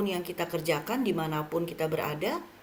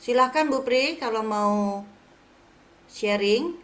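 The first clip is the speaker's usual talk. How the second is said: calling out; 3 semitones higher, 5 dB louder, slower than usual. Real, not acted. Calling out to unheard member.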